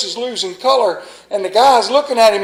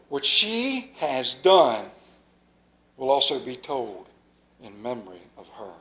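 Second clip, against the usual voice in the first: scripture reading. Acted. Preacher reading scripture to the congregation, solemn.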